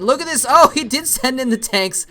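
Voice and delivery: animated play-by-play. Real, not acted. Caster calling tanks hitting the probes, animated play-by-play. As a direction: punch out the action as it unfolds. Live play-by-play of tank attack.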